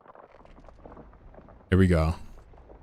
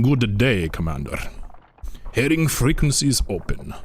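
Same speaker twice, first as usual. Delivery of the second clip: cool battlecruiser captain. Acted. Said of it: "he's cool as cucumber".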